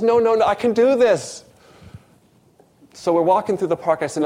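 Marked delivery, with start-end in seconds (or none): 0.0-1.4 insistent retold refusal. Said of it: "He says".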